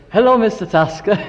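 loud, high cheeky greeting; kids calling. Retold or imitated. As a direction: call out to him with mock innocence. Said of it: "we'd say".

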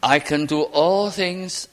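slow, humble and measured. Shown as a demonstration. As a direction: say it humbly, leaning on all. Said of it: "it's a very humble statement".

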